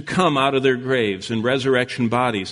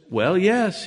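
man from the grave; 6 semitones higher than usual. Acted. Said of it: "the man from the grave says".

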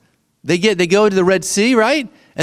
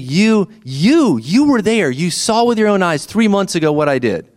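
raised, insistent "You, you, you were there"; emphatic God paraphrase. Retold or imitated. Preacher paraphrasing God reminding Israel what they saw, insistent and raised. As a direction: press it on them like God jabbing a finger. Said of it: "it's like saying".

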